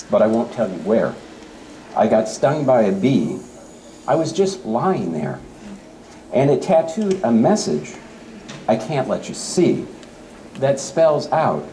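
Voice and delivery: playful read-aloud of a light poem. Acted. Teacher reading a poem to the audience, playful read-aloud. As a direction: read it like a funny poem for kids.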